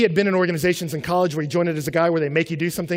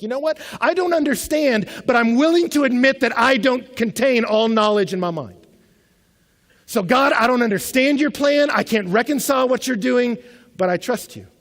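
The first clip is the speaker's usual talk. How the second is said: higher, louder, slow, pleading conviction; impassioned prayer; 6 semitones higher, 5 dB louder than usual. Retold or imitated. Abraham praying to God in surrender, impassioned and slow. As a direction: plead it out, building.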